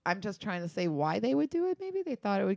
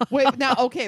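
surprised; 5 semitones higher, 9 dB louder than usual. Real, not acted. Reaction to cursing law.

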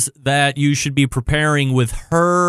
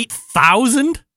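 slow, high "Eight thousand?" in disbelief; can't believe the number, drawn out and high; stunned disbelief; 8 semitones higher, slower than usual. Real, not acted. Disbelief at dinner count.

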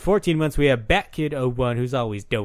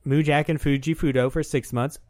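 tipsy slurring; 2 semitones higher, faster than usual. Real, not acted. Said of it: "are you drunk?".

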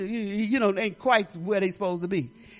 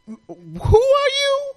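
high, slow, drawn-out puzzled who; 5 dB louder, much slower than usual. Retold or imitated. Pastor mock-puzzled at a grown-up kid. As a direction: stretch the question out in mock confusion. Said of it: "I said".

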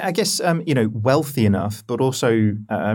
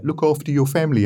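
put-on light geezer Cockney accent; tough-guy Cockney accent, a bit higher; Ross Kemp Cockney accent; 5 semitones higher than usual. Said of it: "That was my Cockney accent".

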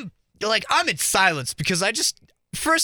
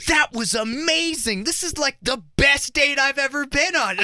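gushing date; 6 semitones higher than usual. Retold or imitated. Date raving about the mime, mock gushing. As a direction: imitate a date swooning over the show. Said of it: "the girl I'm with is like".

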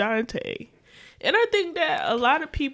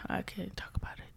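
choked up; 3 semitones lower, 17 dB quieter, faster than usual. Real, not acted. Choking up over the topic.

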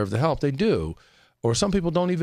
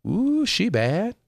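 imitating a friend; 9 semitones higher, much slower than usual. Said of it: "he says".

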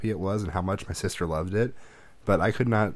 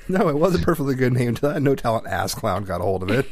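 aggrieved movie line, a touch higher; Michael Bolton quote; 4 semitones higher, 3 dB louder than usual. Retold or imitated. Lightly voiced Office Space Michael Bolton complaining about his name. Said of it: "like the Michael Bolton character".

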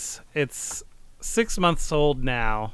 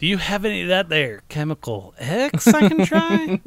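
hick voice; 4 semitones higher, 3 dB louder than usual. Pretend. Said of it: "plays a hopeful volunteer".

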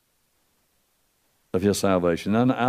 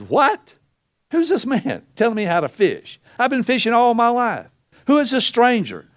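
indignant Peter; 7 semitones higher than usual. Retold or imitated. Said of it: "He says".

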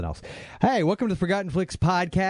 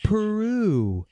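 mock French; 4 semitones higher, much slower than usual.

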